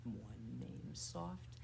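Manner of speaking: low, hushed, drawn-out voice; soft. Shown as a demonstration. Teacher to children in a bird rhyme, soft. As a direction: sink down small and slow.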